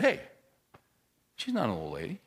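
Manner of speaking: soft, low, gentle correction; loving correction. Retold or imitated. Pastor setting a young guy straight about his wife, softly and lovingly. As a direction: correct him gently, voice dropped. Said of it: "once again in my loving way".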